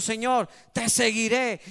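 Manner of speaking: loud, slow mock pledge to the Lord; imitated youthful pledge. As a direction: declare it like a zealous young believer. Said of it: "Hay jóvenes que le dicen al Señor".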